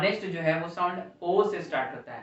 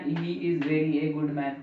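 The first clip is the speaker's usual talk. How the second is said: slow wrong example; much slower than usual. Shown as a demonstration. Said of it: "हम कह सकते हैं ना".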